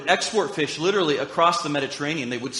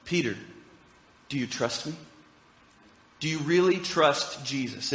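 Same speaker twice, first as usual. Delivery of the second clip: much softer, lower tender ask; tender question; 3 semitones lower, 5 dB quieter than usual. Retold or imitated. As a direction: ask it gently, almost a hush. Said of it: "he was asking Peter".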